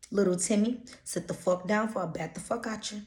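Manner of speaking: hammed-up threat to a misbehaving child; mock scolding parent. Shown as a demonstration. Parent cussing out little Timmy, a mild mock scold. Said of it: "Everything sound better with curse words".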